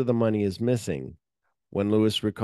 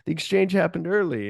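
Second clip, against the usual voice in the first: urgent report; 8 semitones higher, 3 dB louder than usual. Retold or imitated. Jackie breathless to Ray.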